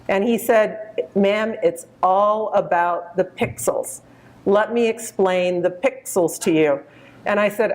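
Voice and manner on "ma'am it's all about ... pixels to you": put-on slow, drawn-out Texas accent of a polite young salesman; Texas drawl. Young Texas clerk greeting a shopper, in a slow Texas drawl. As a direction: stretch the vowels like a Texas store clerk. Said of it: "he said in a nice Texas drawl".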